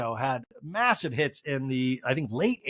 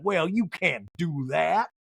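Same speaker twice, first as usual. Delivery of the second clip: slow, drawn-out mock voice; Sutton; much slower than usual. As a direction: stretch the words in mild protest. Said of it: "And Sutton's like".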